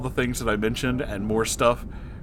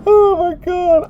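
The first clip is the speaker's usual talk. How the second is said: high, loud, tearful laughing voice; laugh-crying; 6 dB louder, slower than usual. Real, not acted. Reacting to the fan fiction, crying with laughter. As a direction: squeak it out through tears of laughter.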